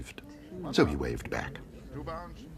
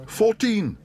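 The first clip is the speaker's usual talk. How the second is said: far higher, louder bear's shout; 6 dB louder than usual. Acted. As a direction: shout the bid eagerly. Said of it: "shouted Paddington".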